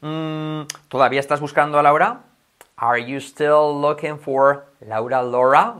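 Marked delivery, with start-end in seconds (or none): 2.8-5.8 slow drill. Shown as a demonstration. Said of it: "R, R".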